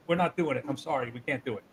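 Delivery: Flair. Retold or imitated. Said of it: "And Flair went like this".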